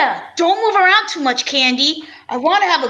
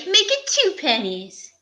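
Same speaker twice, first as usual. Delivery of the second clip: whispered tease; 4 dB quieter than usual. Acted. Teasing aside to Candy.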